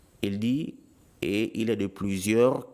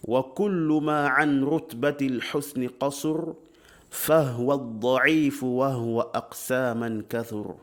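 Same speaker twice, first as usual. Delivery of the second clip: verse recitation. Acted.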